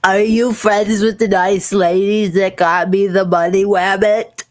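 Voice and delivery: put-on a shy snotty-nosed kid asking; little girl voice. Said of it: "and she goes".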